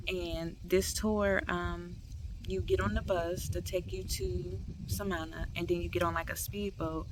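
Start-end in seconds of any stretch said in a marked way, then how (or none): 2.5-7.1 slightly slurred speech, retainer in; slurring with retainer. Real, not acted. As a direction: talk around a retainer. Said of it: "Sorry, I'm slurring".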